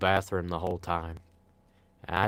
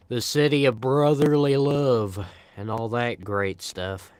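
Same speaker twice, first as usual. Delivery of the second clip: tour guide; 3 semitones higher, 4 dB louder than usual. Pretend. Mock tourism pitch.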